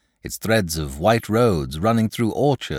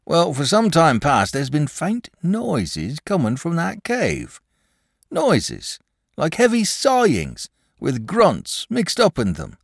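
high, emphatic rustic storyteller; worried country shepherd; 7 semitones higher than usual. Acted. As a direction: tell the strange tale as an uneasy shepherd. Shepherd tells of his fright.

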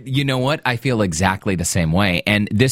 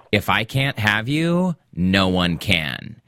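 slow, dark threat; menacing; slower than usual. Retold or imitated. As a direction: say it slowly like a possessive stalker. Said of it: "they both had this attitude of".

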